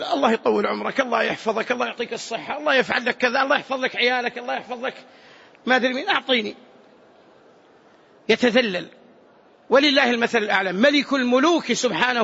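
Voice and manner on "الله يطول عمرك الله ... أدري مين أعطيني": lightly acted needy pleading; string blessings together meekly, a touch subdued; humble beggar. Poor man asking a giver for charity, mildly humble plea. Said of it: "لكن لما يظهر فقره ومسكنته".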